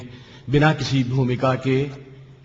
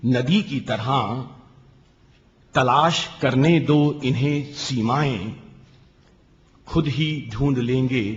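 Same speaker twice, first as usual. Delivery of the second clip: measured, lingering poetic reading; poem recitation. Acted. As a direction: recite with pauses between phrases. Poet recites final poem. (ठहराव भरा काव्य पाठ)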